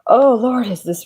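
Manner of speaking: breathy whispered Oh Lord; dismayed whisper. Real, not acted. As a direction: whisper it, taken aback. Dismayed at the reading.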